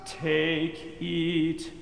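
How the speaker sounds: usual speaking voice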